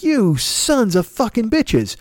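slow, drawn-out mock curse; mock fury. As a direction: spit it out slowly in fake outrage. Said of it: "And I'm like".

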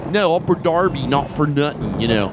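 imperfect imitation of Philadelphia talk; rough Philadelphia accent. Shown as a demonstration. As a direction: have a go at a Philly accent. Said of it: "not a great impersonation".

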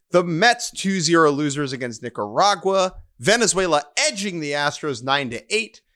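lightly voiced sports news anchor; reporter voice. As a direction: read the scores like a TV reporter. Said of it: "Can I do this in, like, my, uh, reporter voice".

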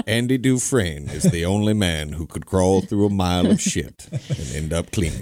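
lightly voiced film narrator impression; storyteller cadence, solemnly delivered for laughs; a hint of a stately movie narrator; Morgan Freeman. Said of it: "Cool story, Morgan".

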